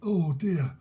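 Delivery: rueful old London gaffer, lightly put on; imitated old geezer. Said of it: "like a proper old geezer".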